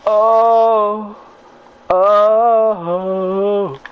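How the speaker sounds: loud startled oh, oh; loud yelps. Real, not acted. Gamer caught off guard in the fight, loud yelps. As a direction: shout it as the hit lands.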